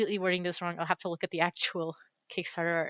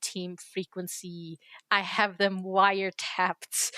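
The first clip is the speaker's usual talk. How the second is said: mock conspiracy voice; slower than usual. Mock conspiracy about dev team.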